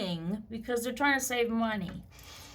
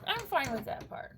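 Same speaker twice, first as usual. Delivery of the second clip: softer, settled repeat; quiet aside; 7 dB quieter than usual. Real, not acted. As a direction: drop the voice and concede it. Quiet repeat of the same point.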